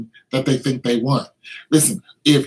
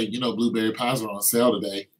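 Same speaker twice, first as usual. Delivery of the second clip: softer, sly sales-pitch murmur; coaxing spirit voice; 5 semitones lower, 6 dB quieter, faster than usual. Acted. Gluttony spirit tempting a pie lover, softly coaxing. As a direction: sweet-talk them toward the pie.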